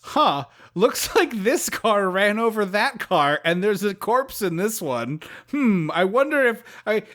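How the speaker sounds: lightly acted cop puzzling it out; slow, hinted detective thinking aloud; musing police officer. Police officer surveys the crashed cars, mock musing. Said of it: "police who would get called by someone would be".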